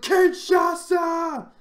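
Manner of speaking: flat, no emphasis. Imitating a commentator calling a wrestling move, without emphasis. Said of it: "Put a bit more emphasis on the Kinshasa".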